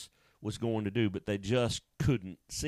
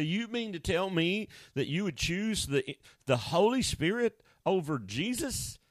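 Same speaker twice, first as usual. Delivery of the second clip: much higher, rising disbelief; mock the shocked objector; preacher voicing a doubter who can't believe the choice; incredulous listener; 7 semitones higher than usual.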